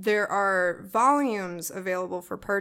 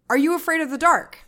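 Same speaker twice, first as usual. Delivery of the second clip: higher and louder, an exclamation not a question; exclaimed spooky title; 7 semitones higher, 7 dB louder than usual. Shown as a demonstration. Retelling the midnight revelation to the host, exclaimed louder and higher. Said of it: "As if, in exclamation of".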